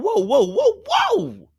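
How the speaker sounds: high, loud whoas; alarmed whoa. Real, not acted. Host stopping the guest's revenge talk, alarmed. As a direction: rein her in fast.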